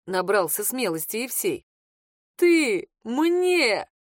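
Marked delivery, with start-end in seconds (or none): 2.4-3.9 laughing. A narrator's reading. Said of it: "расхохотался бес".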